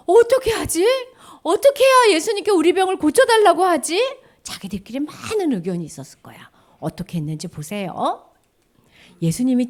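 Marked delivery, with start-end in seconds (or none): 0.1-4.0 high, loud worried voice; anxious fretting. Acted. Lepers wondering how to ask Jesus, anxious and high. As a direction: fret out loud, at a loss.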